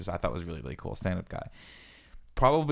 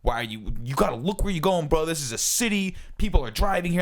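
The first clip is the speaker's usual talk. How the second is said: raised, higher pitched retold yelling at pedestrians; a driver yelling at two dudes walking their dog, retold in a pitched-up shout; mock screaming; 7 semitones higher than usual. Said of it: "I'm actually screaming this at these guys".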